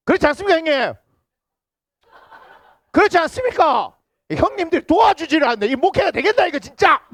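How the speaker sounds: high, loud mock complaint; playful pleading. Real, not acted. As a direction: tease the silent elders into agreeing. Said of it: "pressing elders for agreement".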